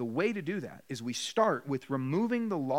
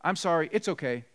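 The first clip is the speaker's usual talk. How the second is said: mock kid exchange. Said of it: "you don't just say".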